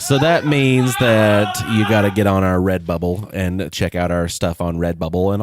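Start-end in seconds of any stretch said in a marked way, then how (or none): 0.0-3.7 radio voice. Acted. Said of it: "Did I do a radio voice? / You did".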